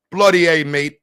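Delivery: put-on rough stab at a British accent; muddled British-Australian accent; attempted British accent. Streamer failing at British for chat, shaky mock British accent. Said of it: "I don't know if it's Irish or Australian".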